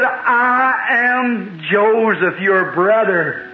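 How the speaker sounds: emotional reveal. Retold or imitated. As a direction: let each word linger as he reveals himself. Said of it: "And he said".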